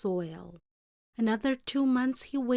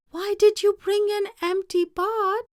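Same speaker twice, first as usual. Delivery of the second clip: emperor's stern question; 11 semitones higher, 6 dB louder than usual. Acted.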